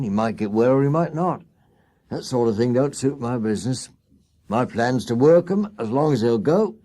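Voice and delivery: brushing off the sick horse coldly; hard-hearted cab owner. Acted. Skinner voiced in story.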